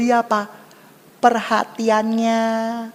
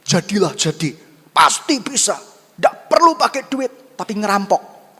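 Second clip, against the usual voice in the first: punchy, forceful pep talk; mock motivator; 4 dB louder than usual. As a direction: hype them up as a parody motivator. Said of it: "dengan motivator-motivator dunia". (gaya motivator yang diparodikan)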